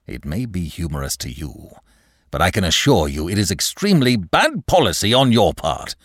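irate manager. Acted. Manager warns clerk about bad policy, irate. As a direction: start restrained, then press harder.

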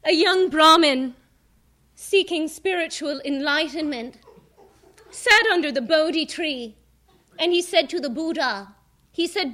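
put-on old-time comic delivering a punchline; old borscht belt comic. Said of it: "You wanna hear a singer do stand-up comedy?".

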